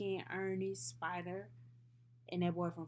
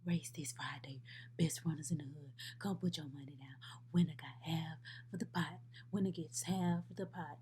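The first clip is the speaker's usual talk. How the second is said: low, hushed hype voice; buzzing block chatter; 3 semitones lower than usual. Acted. The whole block buzzing about Friday's race, hushed hype. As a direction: pass the word round like street rumour. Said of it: "The whole block start buzzing".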